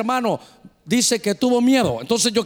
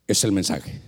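very low, hushed divine voice; voice from outside; 13 semitones lower, 3 dB quieter than usual. Retold or imitated. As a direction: deliver it deep and weighty, like a voice from God. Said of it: "Y la voz aquí".

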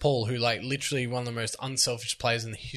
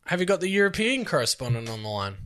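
mock host voice; 5 semitones higher than usual. Hosting a mock broadcast segment.

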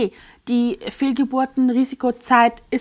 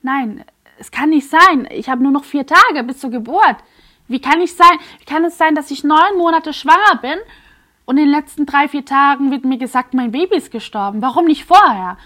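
desperate outcry; 3 semitones higher, 6 dB louder than usual. Retold or imitated. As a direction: cry out that it cannot be true. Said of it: "ich so".

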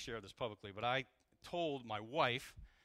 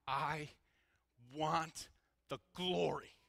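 earnest cry to God; 3 semitones higher, much slower than usual. Retold or imitated. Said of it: "I cried out to the Lord".

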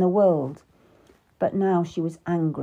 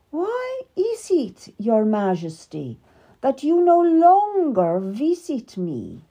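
higher, slow and cold; icy; 4 semitones higher, slower than usual. Acted. Queen confronting King Henry at dinner, icy and slow. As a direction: freeze him out with each question. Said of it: "Her voice was icy".

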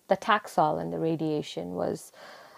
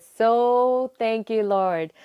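joyful thanks; 4 semitones higher, 5 dB louder, much slower than usual. Retold or imitated. Thanking God after the news.

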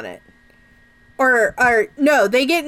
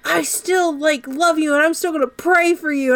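higher, earnest preachy voice; sappy sincere voice, pitched up; mock earnest Christian; 5 semitones higher than usual. Scott voiced in retelling.

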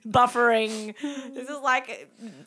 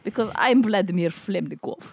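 bad Russian accent; 3 semitones lower than usual. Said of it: "this is not very good accent".

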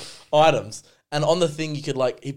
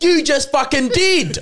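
much higher, louder, slower laughing outburst; incredulous retort; 9 dB louder, slower than usual. Retold or imitated. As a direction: fire it back with a laugh. Retort in retold checkout argument.

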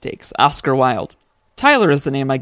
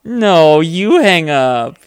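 giggly late night call; 2 semitones higher, 7 dB louder, much slower than usual. Pretend. Lovers' no-you-hang-up game.

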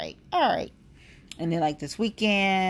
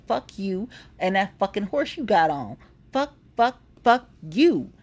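angry retort; 3 semitones higher than usual. Retold or imitated. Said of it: "We wanna say".

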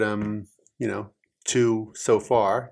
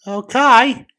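put-on American accent; 11 semitones higher, 10 dB louder than usual. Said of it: "answer it in your best American accent".

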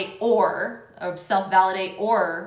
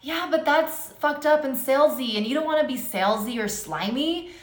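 ego voice; 5 semitones higher than usual. Retold or imitated. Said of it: "ego would be like".

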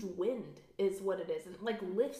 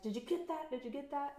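retold excitement in a higher pitch; mock-excited, voice lifted; 6 semitones higher, 4 dB quieter than usual. Film crew check they caught the light on camera, excited. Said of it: "they're all excited 'cause they got it".

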